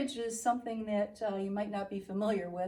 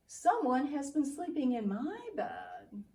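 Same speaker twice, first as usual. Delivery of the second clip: Mama Bear voice; 4 semitones higher, 4 dB louder than usual. Acted. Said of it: "And Mama Bear said".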